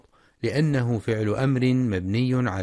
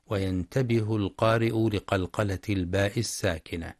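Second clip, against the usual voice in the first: ordinary talk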